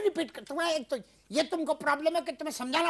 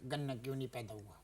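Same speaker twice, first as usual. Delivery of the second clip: much lower and softer, icy calm; forced calm; 15 dB quieter than usual. Acted. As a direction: ask very quietly, holding the anger in. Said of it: "आराम से मैं ठंडा होके तुमसे पूछ रहा हूँ".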